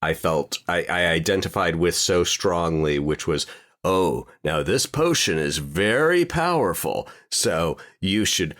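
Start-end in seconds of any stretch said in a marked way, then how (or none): 3.8-8.5 mock potion warning. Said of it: "some internet post meme".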